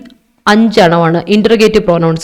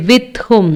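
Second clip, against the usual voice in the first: "with whom" said slowly, pressing on "with"; teacher slows down on "with whom" for students; with whom stressed; 4 semitones higher than usual. Shown as a demonstration. അധ്യാപിക "with whom" പതുക്കെ ഊന്നി പറയുന്നു. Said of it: "നോക്കിയേ".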